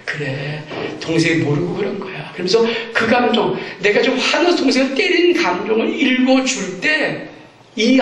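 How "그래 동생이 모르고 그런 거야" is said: gentle soothing mother. Shown as a demonstration. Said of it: "그걸 읽어주는 거예요".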